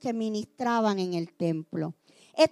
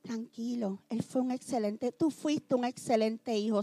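consuelo hueco muy suave y bajo; pésame trillado; 5 semitones lower, 10 dB quieter than usual. Shown as a demonstration. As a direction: imitar un pésame torpe casi murmurando. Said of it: "Nunca le digas a un hijo". (ejemplo de lo que no decir a un huérfano, muy suave)

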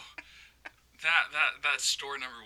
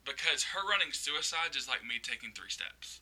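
talking through laughter, getting louder; amused, laughter breaking into the words; real laughing; 2 semitones higher, 6 dB louder than usual. Real, not acted. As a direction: tell it while cracking up. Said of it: "whole reason I'm laughing is".

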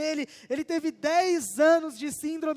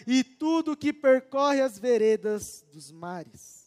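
slow, measured psalm reading with pauses; scripture reading. Acted. Preacher reads Psalm 8 to the congregation, solemnly. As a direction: read the psalm with solemn weight.

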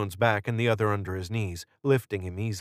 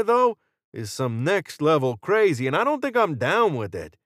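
higher, animated, talkative gunman; level with them in a pitched-up, emphatic voice; Jordan; 7 semitones higher, 4 dB louder than usual. A narrator's reading. Jordan confiding doubts about the cult to Israel, frank and animated.

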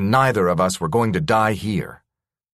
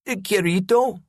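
surprised call; 11 semitones higher than usual. Acted. Friend calling from hiding.

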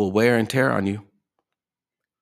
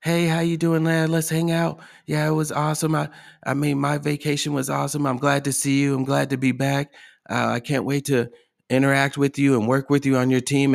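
higher, bright mock-friendly small talk; fake cheerful greeting; 4 semitones higher than usual. Coworker faking delight to a colleague, higher mock-cheerful chatter. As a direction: put on a phony smile in the voice. Adults will smile in each other's faces.

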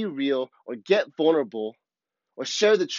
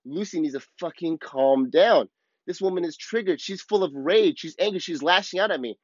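triggered; 3 semitones higher than usual. Retold or imitated. Speaker inwardly blaming a person mid-fight, mildly triggered. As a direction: act out a touch of indignation, without raising the volume. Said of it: "I get triggered".

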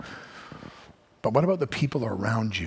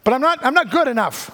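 anxious believer; 7 semitones higher, 4 dB louder than usual. Pretend. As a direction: plead harder each time you say I love him. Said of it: "you're like".

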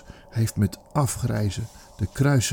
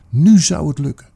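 triumphant hope; 4 semitones higher, 8 dB louder than usual. Acted. Father sure of revenge.

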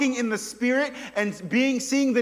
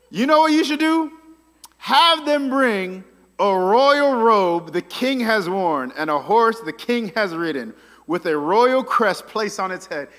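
boastful Haman; 6 dB louder than usual. Retold or imitated. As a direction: savour every royal detail. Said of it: "He goes".

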